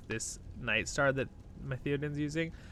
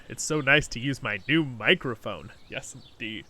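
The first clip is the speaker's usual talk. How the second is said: ordinary talk, nothing marked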